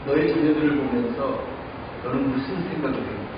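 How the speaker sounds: a hint of a gentle, low voice of God; lightly voiced God speaking to the pastor; God's voice. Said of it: "하나님이 저에게 주신 마음".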